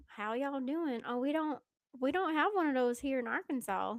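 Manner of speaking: playful put-on Southern accent. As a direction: lean into a friendly Southern twang. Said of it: "in a Southern accent".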